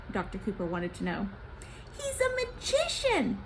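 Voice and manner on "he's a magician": sly official Gozan. Acted. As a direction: drag out the bargain like a sly slug. Gozan describes the shaman.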